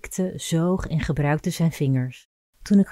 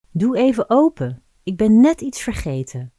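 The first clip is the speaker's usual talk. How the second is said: calling through door; 6 semitones higher, 5 dB louder than usual. Retold or imitated. Man calling through shower door.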